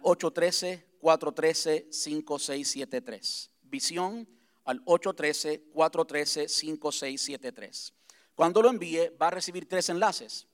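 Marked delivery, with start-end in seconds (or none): 0.0-3.5 slow, deliberate number dictation, digit by digit. Real, not acted. Dictating a text number slowly. 3.6-7.9 slow, deliberate number dictation, digit by digit. Real, not acted. Repeating the number slowly.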